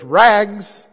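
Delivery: loud, high ringing tenor cry of a rag seller; street call. Acted. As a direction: sing it out down the alley. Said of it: "calling in a clear tenor voice".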